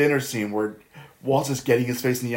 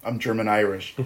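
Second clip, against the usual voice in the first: calm reply; 5 semitones lower, 5 dB quieter than usual. Retold or imitated. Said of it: "Hagen calmly says".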